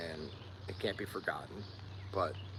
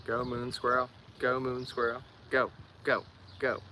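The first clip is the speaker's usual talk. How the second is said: cheering; 4 semitones higher than usual. Real, not acted. Cheering on a viewer.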